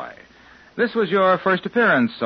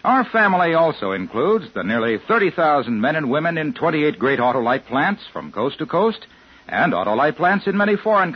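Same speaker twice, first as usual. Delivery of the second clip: ad read. Acted. Sponsor ad read.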